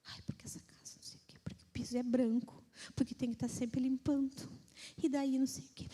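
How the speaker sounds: hushed grumbling church sister; complaining whisper. Retold or imitated. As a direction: whisper the gripes like a moaner. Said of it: "a irmã só reclamava".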